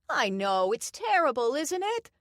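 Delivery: put-on high, loud old-lady yell; wife yells back to her husband. A narrator's reading. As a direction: holler it back to the other room. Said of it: "she yelled back".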